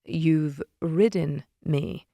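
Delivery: a hint of a low, teasing Leonid. Leonid teasing narrator, lightly voiced.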